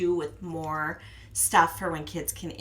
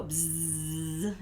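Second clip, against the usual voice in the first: buzzing bee sound; 2 semitones lower, 4 dB quieter than usual. Shown as a demonstration. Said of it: "we do the B sound".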